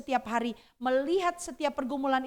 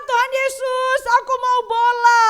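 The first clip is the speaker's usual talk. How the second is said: put-on higher, louder child's cry to God; child's shout; 11 semitones higher, 10 dB louder than usual. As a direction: shout the prayer like a small kid. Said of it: "dia teriak sama Tuhan". (teriakan anak kecil yang berdoa minta bola, nada tinggi)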